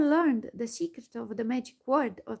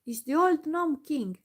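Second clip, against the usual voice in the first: angry; 4 semitones higher, 4 dB louder than usual. Acted. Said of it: "he said in an angry voice".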